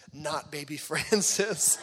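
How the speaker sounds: slow, mock-defiant toddler refusal; mad toddler. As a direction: imitate a cross little girl, drawn out. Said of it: "she was mad one night".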